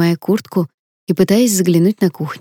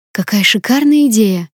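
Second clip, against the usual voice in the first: higher, delighted cry; excited exclamation; 4 semitones higher than usual. Acted. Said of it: "воскликнула Камила".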